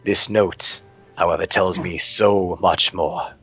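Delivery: slow, deliberate kingly tone, lightly voiced; measured king. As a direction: weigh each word like a ruler pondering. King reads the note.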